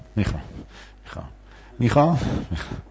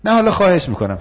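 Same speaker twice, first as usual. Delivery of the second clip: high insistent plea; pleading student; 8 semitones higher, 4 dB louder, faster than usual. Acted. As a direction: beg again, pitch up. Student begging role-play. (دانشجوی سمج با صدای زیر)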